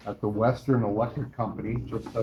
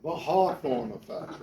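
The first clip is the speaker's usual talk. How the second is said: British accent; 3 semitones higher than usual. Shown as a demonstration. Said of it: "That's how you say it if you're a Brit".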